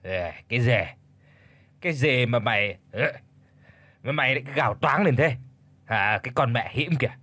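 lightly acted slurring drunk; drunken slur. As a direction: mumble a confused challenge as a tipsy old husband. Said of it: "cất cái giọng lè nhè toàn mùi men rượu".

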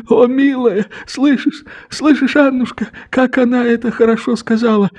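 put-on an old man bursting with happiness; overjoyed old father. A narrator's reading. Old father to his wife Annushka, overjoyed and excited.

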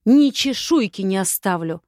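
angry, emphatic vow; through the teeth. Acted. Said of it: "процедила сквозь зубы".

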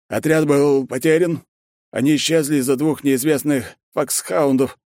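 lightly voiced nervous general; general's voice. General reports lost squad.

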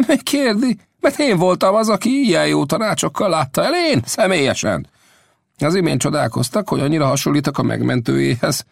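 revealing himself with a twinkle; Old Death's voice. Acted. Old Death tells Will he was his rescuer.

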